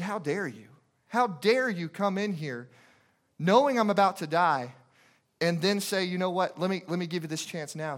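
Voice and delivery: indignant imitation, rising a little in force; retold angry. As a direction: confront a friend with restrained outrage. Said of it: "she's getting angry".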